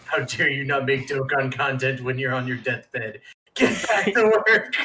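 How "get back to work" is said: slow, higher mock boss order; mock stern boss. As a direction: bark it like a fake boss. Mock boss scolding the injured.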